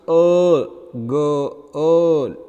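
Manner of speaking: put-on the er alone, held, then girl drawn out; sustained, stressed er in "girl"; long vowel in girl. Shown as a demonstration. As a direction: isolate and lengthen the vowel of girl. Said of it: "this is pronounced".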